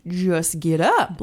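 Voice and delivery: low, slow, tired "Just get up." with a falling end; flat slow "Just get up.". Retold or imitated. Telling a snoozing husband to just get up, slow and fed up. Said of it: "I'm like".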